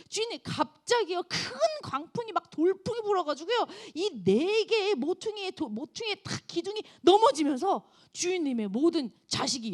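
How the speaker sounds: high, grieving report; a hint of a messenger's grief; lightly voiced servant. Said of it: "마지막으로 또 사환이 딱 들어옵니다". (가볍게 연기한 종의 슬픈 보고)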